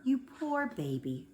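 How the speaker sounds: slow, gentle pity; tender comfort. A narrator's reading. Kneeling teacher comforting sobbing Trisha, tender and slow. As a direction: soothe a crying child.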